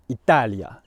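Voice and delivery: "Italia" with TA punched, i-TA-lia; "Italia" falling away after a strong TA; penultimate stress. Shown as a demonstration. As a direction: hit the middle of "Italia" hard. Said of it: "stress ends on the penultimate syllable".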